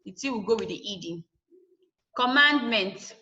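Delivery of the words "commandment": Commandment with MAND stressed, the ending unstressed. Shown as a demonstration. Teacher shows that adding ment keeps the stress, MAND stressed in Commandment. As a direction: lean on the middle syllable of Commandment. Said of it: "mand is stress".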